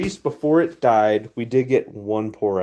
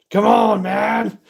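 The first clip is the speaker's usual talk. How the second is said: higher, louder frustrated cry; exasperated plea; 10 semitones higher, 8 dB louder, slower than usual. Real, not acted. Streamer pleads with his failing furnace, frustrated cry. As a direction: beg the furnace to cooperate.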